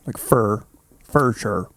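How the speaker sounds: "sure" rhymed with "fur"; "fur" pronunciation. Shown as a demonstration. Host showing his own dialect, "fur" pronunciation. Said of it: "I guess I say for sure".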